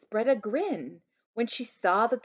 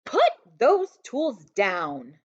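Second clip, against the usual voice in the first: stern; 6 dB louder, slower than usual. Acted. Mother scolding.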